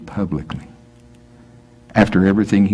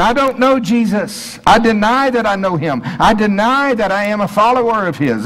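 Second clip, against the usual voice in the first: high, pressed, insistent denial; desperate denial; 13 semitones higher than usual. Pretend. Peter swearing he's no follower, high and pressed. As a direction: insist you never knew him. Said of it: "Let's say it a little different".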